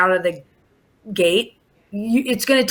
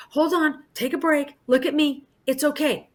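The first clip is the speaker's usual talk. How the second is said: put-on hushed and reassuring, like talking a toddler down; soothing teacher voice; 2 semitones higher, 5 dB quieter than usual. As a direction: gently settle a frustrated child. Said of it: "I'm like".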